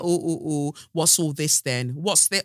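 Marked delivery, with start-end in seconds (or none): 0.0-0.7 mock surprised mother. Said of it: "And you're like". 1.9-2.4 mock surprised mother. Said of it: "And you're like".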